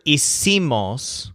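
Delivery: hicimos said slowly, stressing its middle syllable "ci"; hicimos, slow and clear, middle syllable stressed. Shown as a demonstration. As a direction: lean on the "seem" sound inside hicimos. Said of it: "with the stressed syllable seem".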